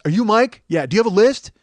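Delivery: loud, panicky, hurried questions; flustered rushed guy. Retold or imitated. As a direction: rattle it off flustered. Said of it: "he's flustered and panicked".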